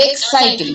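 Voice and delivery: এক্সাইটিং with the middle "sai" stressed; stress on second syllable. Shown as a demonstration. Teacher showing class where stress falls, এক্সাইটিং stressed on "sai". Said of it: "এটার উপর আমরা বেশি জোর দিচ্ছি".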